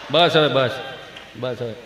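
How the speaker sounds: low, soft hushing; soothing father. Acted. Father trying to calm crying child, soothing. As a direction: hush the child quietly and low.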